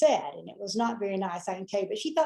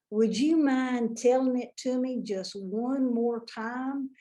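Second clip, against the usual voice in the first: slow, exaggerated Southern drawl, playing dumb; thick Southern drawl. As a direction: stretch every word in a put-on Southern accent. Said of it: "I was going to accentuate that Southern drawl".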